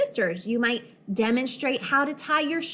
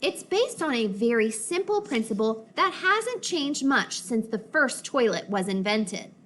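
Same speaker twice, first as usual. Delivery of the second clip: scholarly voice. Acted. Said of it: "the scholarly voice they used in museums".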